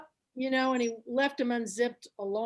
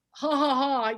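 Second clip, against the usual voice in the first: slightly raised, spoken "ha, ha, ha"; mimed belly laugh; 4 dB louder than usual. Retold or imitated. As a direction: imitate an easy, obvious laugh. Imitating an easy laugh.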